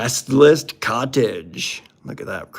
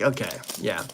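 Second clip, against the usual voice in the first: weary mock tone; 3 semitones lower, 6 dB quieter than usual. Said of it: "you're like".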